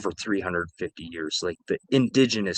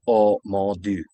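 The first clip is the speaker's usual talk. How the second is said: put-on old French lady; slower than usual. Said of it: "an old French lady say".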